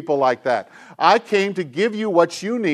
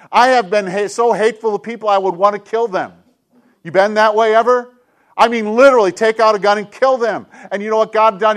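preaching at full force; 4 semitones higher, 5 dB louder, faster than usual. Acted. Passionate confession.

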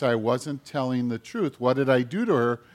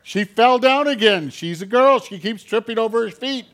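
innocent liar; 9 semitones higher, 6 dB louder than usual. Acted. Lying brother blames sister to Dad.

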